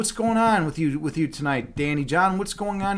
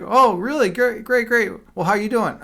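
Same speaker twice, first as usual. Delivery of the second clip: mock awkward enthusiasm; 4 semitones higher, 4 dB louder than usual. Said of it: "And you're like".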